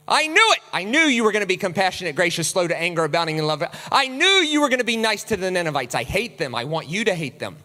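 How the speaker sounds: a hint of petulant Jonah complaining to God; mock sulking Jonah. Jonah complaining to God about Nineveh, mildly petulant. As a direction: whine to God with mild indignation. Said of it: "the whole point of the book of Jonah".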